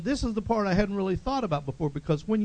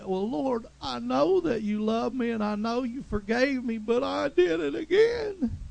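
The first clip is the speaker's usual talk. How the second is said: guilty believer's prayer; 5 semitones higher than usual. Retold or imitated. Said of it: "we say".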